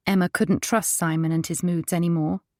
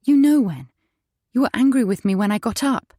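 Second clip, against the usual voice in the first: higher and louder, accusing; confronting; 4 semitones higher, 4 dB louder than usual. A narrator's reading. Wife confronting husband about his morning anger, loud and high. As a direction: push back hard at him.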